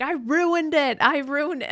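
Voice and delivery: high, wailing mock lament; mock despair. Meg Ryan wailing over her lost chance, high mock despair. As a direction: whine it like a heartbroken heroine.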